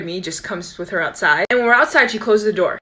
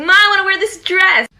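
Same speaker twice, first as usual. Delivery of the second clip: put-on eager kid asking; 10 semitones higher, 5 dB louder than usual. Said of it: "I was probably like".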